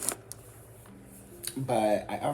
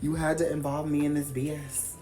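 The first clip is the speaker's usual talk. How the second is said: annoyed retort; 5 semitones higher than usual. Retold or imitated. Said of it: "I'm like".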